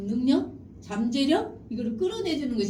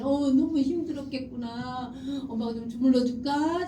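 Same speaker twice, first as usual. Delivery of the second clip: 공감해 주는 엄마; 3 semitones higher than usual. Acted. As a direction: soothe the child with stretched-out words. Acts out an over-sympathetic parent. (길게 늘이며 달래는 엄마 말투)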